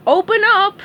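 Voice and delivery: high, loud pounding-on-the-door shout; yell. Acted. Sandy at SpongeBob's door, loud demanding yell. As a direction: bark it through the door. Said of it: "she yelled".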